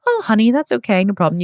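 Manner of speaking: high, sugary mock-soothing parent voice; mock sweet parent. Parent pretending to soothe a child, mock sweet and high. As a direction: coo it like a fake-kind parent. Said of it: "you don't go to your child".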